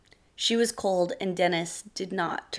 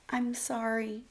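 small, soft and high apology; frightened wife apologising meekly; 5 semitones higher, 6 dB quieter, slower than usual. A narrator's reading. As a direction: barely dare to say it. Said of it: "Sarah said meekly".

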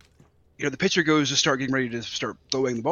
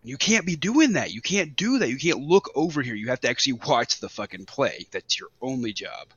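imitated calling-out; 2 semitones higher than usual. Manager calling out the umpire, imitated angry protest. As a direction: scold him, imitating the irate manager. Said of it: "you can hear A J call him out".

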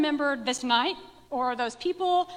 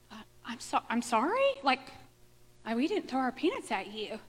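kind and sweet; 6 dB quieter than usual. Retold or imitated. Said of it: "trying to be really kind and sweet".

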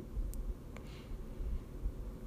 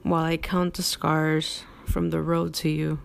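poem reading. Acted. Reads his poem aloud.

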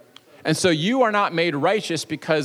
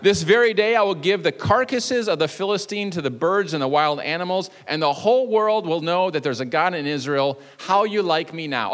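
cocky boast; 4 semitones higher than usual. Acted. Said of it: "he didn't say that last part".

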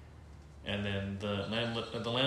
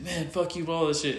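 higher-pitched imitation of an angry teen; mock defiance; 6 semitones higher, 4 dB louder than usual. Boyfriend cursing before he swings, mock defiant. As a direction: throw out a mock angry brush-off.

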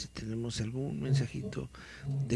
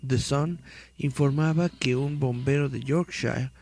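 dramatic read-aloud of a mystery article; 3 dB louder than usual. Acted. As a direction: read it like a creepy news report.

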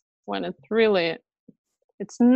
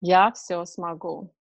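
Russian mantra; slower than usual. Shown as a demonstration. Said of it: "in Russian, tell me some mantras".

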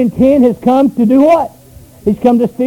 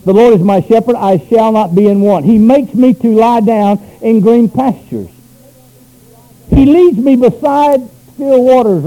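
scripture reading; 3 semitones lower than usual. Shown as a demonstration. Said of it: "I'm reading from the New International Version".

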